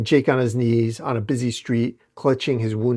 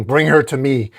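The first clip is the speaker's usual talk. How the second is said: louder, a mild mock yell; commanding yell; 5 dB louder than usual. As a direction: order his followers after her.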